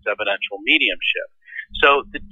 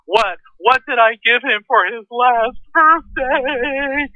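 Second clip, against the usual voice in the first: high wail, slowly drawn out to the end; hammed-up sobbing question, stretched and high; mock crying; 13 semitones higher, much slower than usual. Widow testing the medium about her husband, mock wailing. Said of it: "she's crying through this crumpled tissue".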